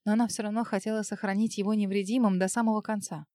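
ordinary delivery

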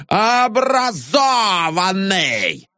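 high, slow sneering yell; mocking shout. A narrator's reading. Janitor mocks the educated locksmith, shouting. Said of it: "неистовствовал дворник".

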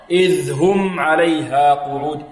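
slow عليها with a distinct breathed h; clear ha. Shown as a demonstration. Teacher models for students, clear h in عليها. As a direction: give the h in عليها its full sound. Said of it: "يعني توضيح الهاء".

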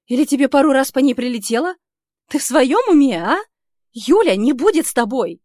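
выше и громче, с напором; бить словами наотмашь; гневная издёвка. Acted. Героиня в гневе язвит. (героиня зло высмеивает Ника)

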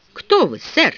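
belligerent demand. A narrator's reading. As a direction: demand it like a spoiling-for-a-fight gent, lightly. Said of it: "весьма воинственно потребовал ответа". (слегка воинственно, с вызовом)

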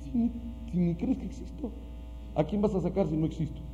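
a hint of a taunting demon. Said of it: "y le dijo".

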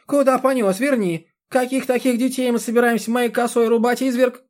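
put-on high, loud shrieking old woman; a panicked old woman shrieking after the man; old woman wailing. A narrator's reading. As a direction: wail it out like a frantic granny. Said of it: "вопила старуха".

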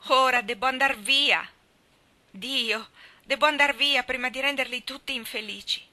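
loud, high, anguished wail; loud, distraught outburst; dismayed wailing cry. A narrator's reading. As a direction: cry out in dismay like a gull in the surf. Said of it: "gemette Malli in un grido sgomento".

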